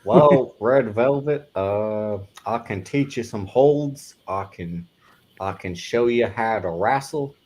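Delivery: lightly voiced old-school wrestler, drawn out; a slow, halting impression pitching wrestling lessons; Gerald Briscoe. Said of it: "I can't do the Gerald Briscoe accent".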